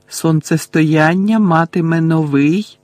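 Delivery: slow, measured prophetic voice; lightly voiced old man ghost. The old bearded man's apparition speaks, slow and measured. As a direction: intone it like a ghostly old seer. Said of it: "промовив образ старого бородатого чоловіка".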